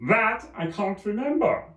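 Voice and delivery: high, anxious voice; nervous Hatter. Acted. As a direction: explain timidly.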